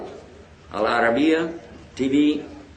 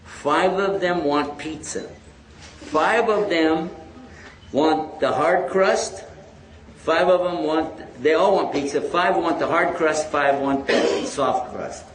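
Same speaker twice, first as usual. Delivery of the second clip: slow dictation; slower than usual. Retold or imitated. Dictating message slowly to relay.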